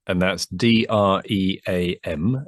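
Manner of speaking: slow, each letter of D R E A M named separately; spelled out letter by letter. Shown as a demonstration. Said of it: "as in dream".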